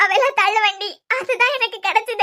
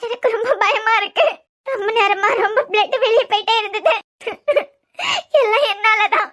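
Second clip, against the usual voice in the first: choked, crying self-blame; fighting back sobs as the words come; tearful. Real, not acted. Wife blaming herself over her stabbed husband, tearful and crying. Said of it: "ஒன்னாலன்னு சொல்லிட்டு ... நிறுத்து".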